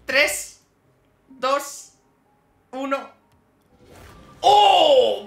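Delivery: nervous excitement. Real, not acted. Nervous countdown before opening.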